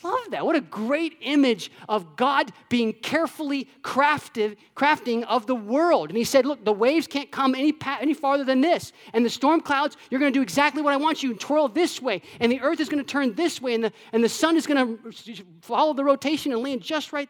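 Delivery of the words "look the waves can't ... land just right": raised, bold voice of God giving orders to the sea; God commanding. Acted. Preacher voicing God ordering the storm clouds, commanding. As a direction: play God laying down the law to the waves.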